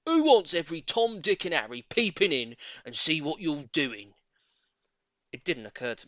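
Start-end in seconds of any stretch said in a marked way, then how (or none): 0.0-4.1 grumpy Mister Twit. Acted. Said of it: "Mister Twit had said".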